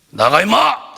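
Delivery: high, loud rough yell; angry cursing shout. Retold or imitated. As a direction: bark the insult at the spirit. Repeats the cursing command. (욕하며 버럭 지르는 고함)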